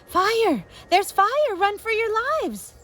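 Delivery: high, loud warning shout; urgent yelled warning; shouting alarm. Acted. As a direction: call out to the whole street. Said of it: "a voice call out".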